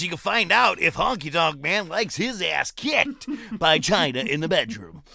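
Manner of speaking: hammed-up phone-line pitch; mock hotline plug. Spoofs the Superstar line hotline plug.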